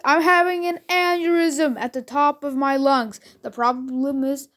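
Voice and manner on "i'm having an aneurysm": mild mock scream, higher pitch; retold screaming. Ten-year-old announces a headache to family, imitated scream. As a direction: cry it out in alarm, half-hearted. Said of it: "so I screamed".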